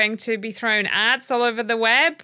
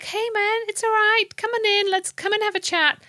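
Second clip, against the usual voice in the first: cosy best-friend voice; 11 semitones higher than usual. Retold or imitated. Mocking the chatbot's welcome to a friend. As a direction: coo them in like an old pal on the sofa. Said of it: "They're like".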